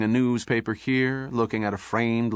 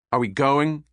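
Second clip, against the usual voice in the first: a touch louder, snapping impatience; impatient outburst; 4 semitones higher, 4 dB louder than usual. Acted. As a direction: burst out, fed up with waiting. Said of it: "Bullard finally burst out".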